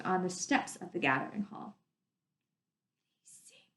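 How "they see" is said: breathless private whisper; whispered thought. Acted. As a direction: keep it to yourself, barely audible. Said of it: "Lena thought".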